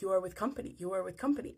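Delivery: lightly voiced Nigerian accent, insistent; imitated Nigerian accent. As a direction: repeat it as if it explains everything, Nigerian accent. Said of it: "he just keeps saying it over and over".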